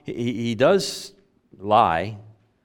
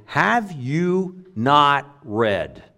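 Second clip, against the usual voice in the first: slow, drawn-out mock question; sarcastic; much slower than usual. Jesus poking at the scholars, lightly sarcastic. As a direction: let a little sarcasm drip from it. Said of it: "a little bit of sarcasm in his voice".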